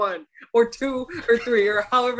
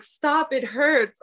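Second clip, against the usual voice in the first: higher mock protest; imitated whiny heroine; 5 semitones higher, slower than usual. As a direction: lift it into a mock complaint. Imitates dragged drama heroine.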